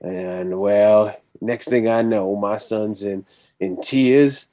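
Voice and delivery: put-on slow, eased-in Southern accent that lands near Tennessee; Texan accent, slowed. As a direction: ease into a slow Texas drawl. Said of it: "you sound like you're from Tennessee".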